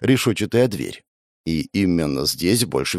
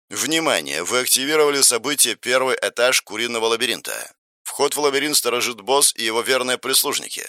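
system announcement. Acted. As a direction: read it like a game system message.

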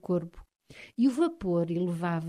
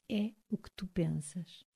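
delicate precision; 8 dB quieter than usual. A narrator's reading. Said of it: "com delicada precisão".

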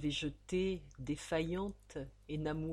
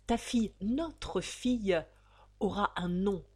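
triumphant; 3 semitones higher, 6 dB louder than usual. A narrator's reading. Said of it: "se redressant triomphant".

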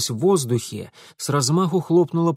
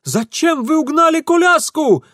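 put-on high, loud panicked young man's cry; Ingvar yelling; 7 dB louder than usual. A narrator's reading. Ingvar yells at Mitya over the stolen carriage, high panicked cry. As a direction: squeal it out in alarm. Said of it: "завопил Ингвар".

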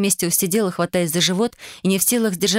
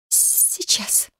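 stifled whisper; 4 dB quieter than usual. A narrator's reading. Stifling laughter, hands over mouth.

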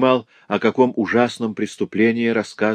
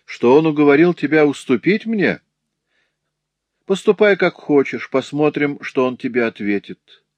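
higher, scornful dare; taunting master; 5 semitones higher than usual. Acted. Master daring the girl to tell her father, scornful.

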